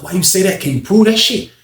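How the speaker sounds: high, loud doubting question; incredulous challenge. Retold or imitated. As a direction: push back hard, half laughing at the idea. Challenging Unc's accusation.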